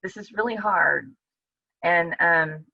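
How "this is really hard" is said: crying out. Retold or imitated. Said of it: "he's just crying out".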